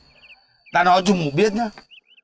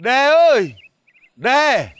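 raised, drawn-out hail; calling out; 3 semitones higher, much slower than usual. Acted. Visiting ex-mandarin calling for Đề, calling out. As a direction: call for the householder.

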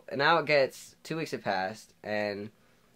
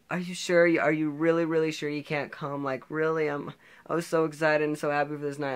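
high-pitched imitation of a pleading girl; disappointed date; 7 semitones higher, 5 dB louder than usual. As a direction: plead in a higher mock girl voice.

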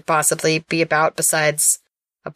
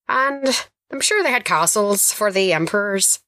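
put-on Irish accent; 2 semitones higher than usual. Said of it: "discount version of the host".

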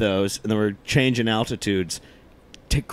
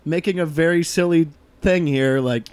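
reassuring; 5 semitones higher than usual. Retold or imitated. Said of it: "everybody was like".

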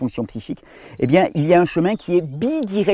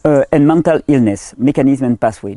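French-accented English; 5 dB louder than usual. Real, not acted. Lecturer reading an English study title aloud in French-accented English. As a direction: read the English title carefully in a French accent, a touch louder. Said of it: "mon accent anglais".

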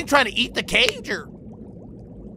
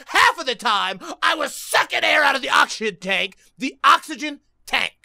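agitated, higher-pitched rant; worked up; 4 semitones higher than usual. Real, not acted. Player explaining the failed button spamming, worked up. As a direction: get flustered and force the words out. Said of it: "I'm getting too worked up, I can't talk".

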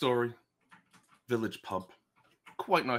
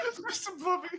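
barking; faster than usual. Acted. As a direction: bark it out from inside a costume. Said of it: "barks from inside the costume".

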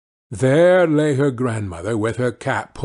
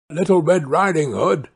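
lightly raised imitation girl; slightly high, coaxing disguise; wolf posing as girl; 4 semitones higher than usual. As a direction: pretend to be the granddaughter.

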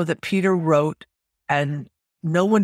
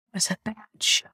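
confiding stage whisper; 4 semitones higher, 5 dB quieter than usual. Real, not acted. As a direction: whisper it as an aside. Aside about the show.

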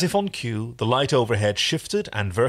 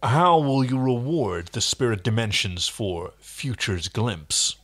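Hercules voiceover. Acted. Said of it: "delving from Walter Cronkite into ... Hercules".

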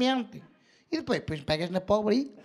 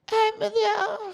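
"Ai, meu Deus" arrastado muito devagar, mais agudo; grito fingido; 9 semitones higher, much slower than usual. Acted. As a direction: fingir um grito de dor lento e exagerado. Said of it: "Tens que gritar assim". (mãe ensina a filha a gritar, gemido teatral e arrastado)

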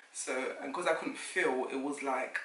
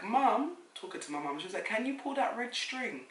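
high nurse voice; 7 semitones higher than usual. Retold or imitated.

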